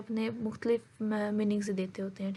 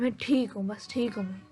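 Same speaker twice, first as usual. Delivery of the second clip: a touch of mock anger; understated retold annoyance; mildly angry. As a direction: imitate an abrupt, irritated reply. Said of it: "गुस्से में या angry में यकदम कह देता है".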